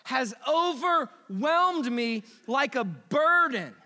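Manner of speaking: slow, heavy lament; slow anguished reading. Retold or imitated. Pastor voicing King David's psalm, slow and heavy. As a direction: carry the weight of guilt. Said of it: "He said".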